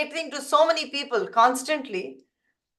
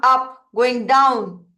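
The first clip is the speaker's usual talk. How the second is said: pitch going up and down; 4 dB louder, much slower than usual. Shown as a demonstration. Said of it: "Your pitch going".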